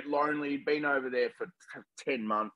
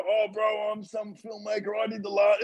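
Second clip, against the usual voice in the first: high, shouted mock-eager pitch; desperate fan; 7 semitones higher than usual. Mocking how a desperate filmmaker would pitch himself to a star, shouted. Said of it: "That's desperate".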